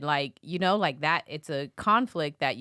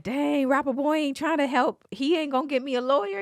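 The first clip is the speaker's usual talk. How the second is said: higher, louder put-on voice; inmate's voice; 10 semitones higher, 4 dB louder than usual. Host imitating an inmate complaining on a jail call. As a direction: play the let-down inmate. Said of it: "And he like".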